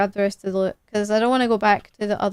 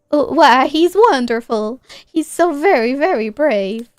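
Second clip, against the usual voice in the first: voicing Mom; 5 dB louder than usual. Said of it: "I can't do accents".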